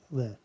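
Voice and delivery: "li" as a short, unstressed luh; pronounced "li". Shown as a demonstration. Teacher isolating syllable seven, sounded out as luh. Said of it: "be pronounced li there".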